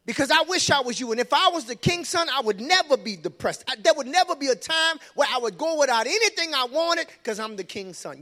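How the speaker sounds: high, loud envious voice; envious friend. Acted. Preacher voicing envious Jonadab, loud and high. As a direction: let the envy spill out.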